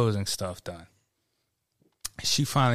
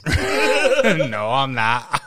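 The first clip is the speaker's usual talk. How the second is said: laughing mock retort; 3 semitones higher, 6 dB louder, much slower than usual. Mocking customer's outburst.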